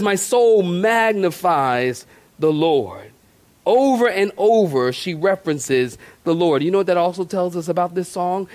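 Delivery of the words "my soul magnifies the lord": slow reverent quote. Shown as a demonstration. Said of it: "And she says".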